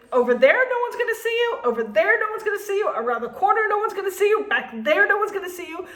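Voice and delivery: put-on sugar-coated, like asking a favour of a child; mock sweet and nice. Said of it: "after I said very nicely".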